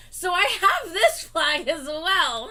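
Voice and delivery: laughing while talking; giggly, slow words. Real, not acted. Laughing while showing flag.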